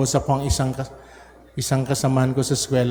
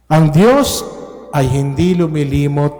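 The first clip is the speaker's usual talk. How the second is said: preaching. Acted. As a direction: proclaim it to the whole church. Preaching at full force. (malakas na pangangaral)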